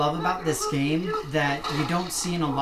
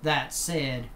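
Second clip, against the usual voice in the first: put-on Southern accent. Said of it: "as I get into my southern accent here".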